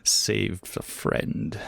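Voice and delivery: slow, scoffing whisper; scornful whisper. Acted. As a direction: breathe it out in disdain. Master scoffs at players.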